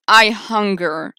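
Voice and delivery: menacing voice. Acted. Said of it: "I can't do a menacing voice".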